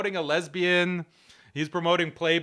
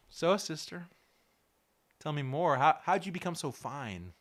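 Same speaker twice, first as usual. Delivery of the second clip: mock flirting; 2 semitones lower, 5 dB quieter than usual.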